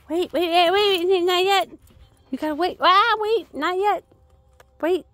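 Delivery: high loud urgent commands; barked order. Real, not acted. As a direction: snap out wait, wait to the dog. Holding dog back from treat.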